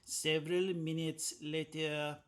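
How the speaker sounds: slow French-accented SpongeBob time card; drawn-out French accent like the SpongeBob narrator. Shown as a demonstration. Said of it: "my best French accent in the theme of the SpongeBob, time cards".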